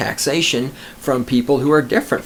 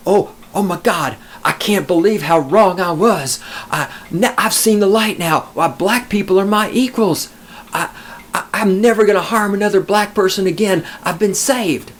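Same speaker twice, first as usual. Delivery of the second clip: mock conversion; 5 semitones higher than usual. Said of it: "he's gonna go".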